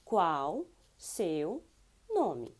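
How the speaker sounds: qual seu and nome said apart; careful teacher model; slow demo. Shown as a demonstration.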